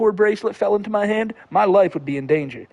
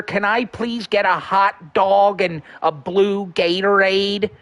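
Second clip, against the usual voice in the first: slow, put-on voice ordering food; Josh Block impression; 2 semitones higher, slower than usual. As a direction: order a hot dog in a mock Josh voice. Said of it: "favorite impression ... Josh Blocks".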